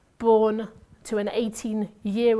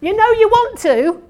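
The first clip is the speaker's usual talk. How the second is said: teasing; 12 semitones higher, 13 dB louder than usual. Real, not acted. Teasing audience about scratching nose.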